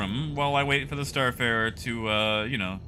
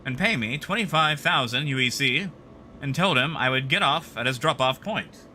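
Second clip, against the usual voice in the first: put-on Mid-Atlantic accent; 2 semitones higher than usual. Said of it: "like a crappy Mid-Atlantic voice".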